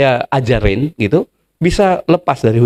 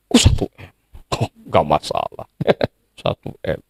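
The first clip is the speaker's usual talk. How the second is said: breathy whispered aside, much softer; mock whisper; 11 semitones lower, 7 dB quieter than usual. Preacher playing Pak Paul to the debtor, whispering. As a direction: whisper it like a secret shrug. Pastor voicing dismissive reply aloud.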